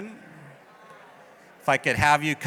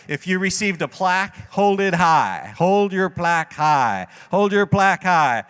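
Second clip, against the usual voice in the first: calling out instructions. Real, not acted. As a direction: call out to the whole room, drawing out the words. Directing crowd for group photo.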